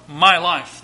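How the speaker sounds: "my" picked out with emphasis; stress on MY. Real, not acted. Preacher turns the charge on himself, stressing "my". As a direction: put the weight on "my". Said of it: "I want to put emphasis on".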